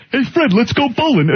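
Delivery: hammed-up cartoon sidekick; Barney impression. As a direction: do the cartoon neighbour calling Fred. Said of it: "He's like".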